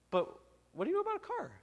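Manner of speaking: very high, fast disbelief; baffled question; husband asking his wife what she knows, very high; incredulous. Retold or imitated.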